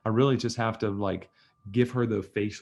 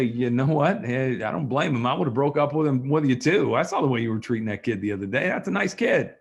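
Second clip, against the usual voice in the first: judging; 3 dB louder than usual. Shown as a demonstration. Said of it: "I evaluate and I say".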